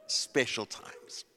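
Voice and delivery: slow, low sermon tag line; hushed refrain. Real, not acted. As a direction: drop down after the climax. Preacher drops down after climax.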